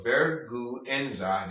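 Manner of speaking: vergüenza slowly, ver-goo-EN-za; slow, separated vergüenza with sounded U. Shown as a demonstration. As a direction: draw out each syllable of vergüenza. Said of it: "Say it slowly".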